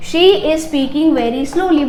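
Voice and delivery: very slow, word by word; slow dictation. Shown as a demonstration. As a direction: dictate slowly to the class. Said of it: "slow dictation of example". (धीरे-धीरे बोलना)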